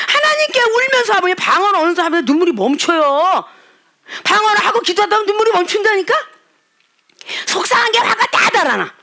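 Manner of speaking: fervent preaching. Real, not acted. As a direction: urge them with tearful fervor. Impassioned preaching. (높고 격정적으로 설교하듯)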